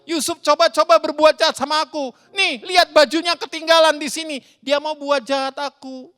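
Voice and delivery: high, hammed-up tearful accusation; slandering wife. Wife falsely accuses Yusuf to her husband, wailing dramatically. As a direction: wail the accusation, starting loud. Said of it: "Lalu dia fitnah Yusuf".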